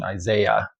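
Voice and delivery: Isaiah said as eye-ZAY-uh; Isaiah, English way. Shown as a demonstration. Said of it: "So you can hear the inflection".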